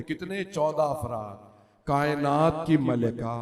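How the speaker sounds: a preacher's grieving majlis recital, rising and falling; mourning recitation. Acted. Preacher reciting Sayyida's last wish to mourners, grieving recital. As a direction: lead the gathering through the sorrow of the tale.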